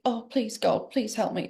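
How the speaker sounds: soft prayer. Retold or imitated. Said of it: "I'm praying".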